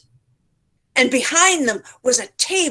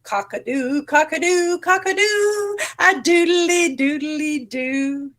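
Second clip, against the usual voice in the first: rooster crowing; 6 semitones higher than usual. A narrator's reading. Rooster shows the animals how he sings, crowing. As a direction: crow like a rooster. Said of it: "Rooster showed them what he could do".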